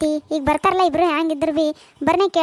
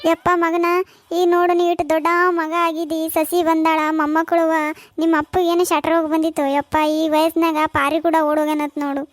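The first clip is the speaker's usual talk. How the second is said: mock-weeping plea to a child; tearful lament. Mother tells grown son his father eloped, lamenting. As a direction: pour out the shame in a wailing tone. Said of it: "ಯಾಕೆ ಇದು ಅಳ್ಳಗತ್ತಿದಿ?".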